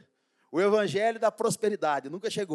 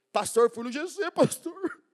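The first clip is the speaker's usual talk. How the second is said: mock crying man; 8 semitones higher, slower than usual. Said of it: "Aí começa a chorar".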